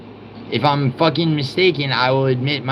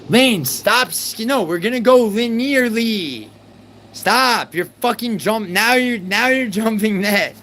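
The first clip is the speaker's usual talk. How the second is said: high, loud exasperated shouts cutting her off; frustrated yelling; 9 semitones higher, 3 dB louder than usual. Real, not acted. Streamer shouting Lane down to go linearly, loud and high. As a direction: yell at her to stop jumping ahead.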